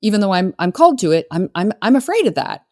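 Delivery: high, hesitant, slowed mock worry; mock worried client. Client voicing fear on a sales call, mock worried. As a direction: voice the client's wobbly doubt. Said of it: "people will voice their concern".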